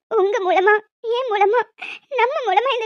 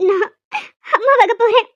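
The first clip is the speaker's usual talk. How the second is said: tearful joy; 6 dB louder than usual. Acted. Hears she is pregnant.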